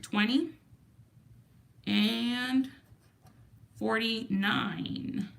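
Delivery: slow whispered number. Real, not acted. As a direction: breathe the number out slowly. Reading out scratch ticket numbers.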